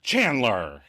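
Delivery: mildly indignant drawn-out name; snapped rebuke. Retold or imitated. Monica to Chandler after being cornered, snapped rebuke. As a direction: snap the name back as a rebuke. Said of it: "Monica snaps back".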